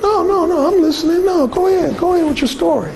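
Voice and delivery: falsely eager "go ahead"; hammed-up fake politeness; pleasantly phony. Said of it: "pleasantly phony and said".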